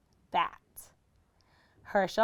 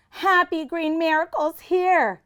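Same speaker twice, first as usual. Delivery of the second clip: put-on higher child's yell; 8 semitones higher, 4 dB louder than usual. Little Max yelling a wrong guess, high yell. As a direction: shout the guess out. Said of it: "Max yelled".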